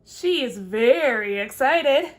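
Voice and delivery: slow, loud squirrel voice; drawn-out, emphatic little squirrel. Acted. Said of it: "the squirrel says".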